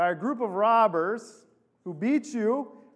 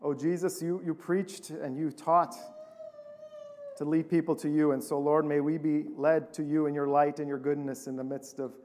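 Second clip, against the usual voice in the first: lower, unhurried pastoral prayer; spoken prayer; 4 semitones lower, 3 dB quieter than usual. Real, not acted. Pastor asks the Lord to help the congregation, prayerful. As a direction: pray aloud in a lowered voice.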